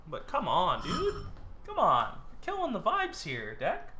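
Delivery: high whiny complaint to the deck; exasperated pleading. Real, not acted. Player whining at his unlucky deck, exasperated.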